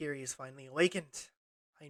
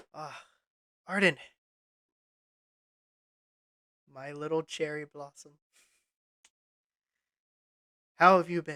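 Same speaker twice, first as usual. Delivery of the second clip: motherly voice, louder; 7 dB louder than usual. Game master voicing a Fey friend greeting the player's character Arden, motherly voice. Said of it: "a familiar voice, motherly in tone".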